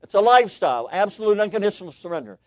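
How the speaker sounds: punchy, forceful restatement; emphatic preaching. Real, not acted. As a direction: drive the point home, high and loud. Preacher drives the point home.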